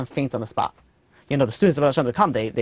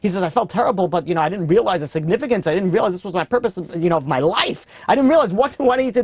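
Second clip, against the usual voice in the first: anguished crying; 3 semitones higher than usual. Retold or imitated. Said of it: "he starts bursting out into crying".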